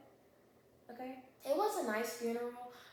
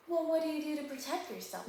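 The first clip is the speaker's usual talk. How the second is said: higher, louder, pointed question; concerned adult; 6 semitones higher, 4 dB louder than usual. Retold or imitated. Camille asking the little boy how he stays safe, higher and pointed. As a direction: quiz the kid with mock alarm.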